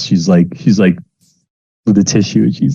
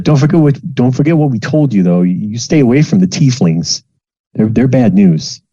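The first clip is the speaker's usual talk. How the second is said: higher, earnest parting warning; lightly voiced mother cautioning; warning mom; 4 semitones higher than usual. Mom warning her child about tieflings, higher. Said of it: "And she said".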